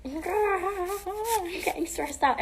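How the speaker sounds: slow mock wail, stretched out; mock crying. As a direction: pretend to fall apart over it. Fake meltdown over scar questions.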